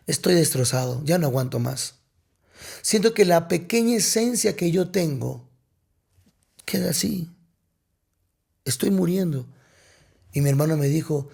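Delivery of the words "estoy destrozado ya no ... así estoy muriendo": subdued, halting admission of despair with long pauses; understated retold anguish; broken confession. Retells confessing he is broken to brother.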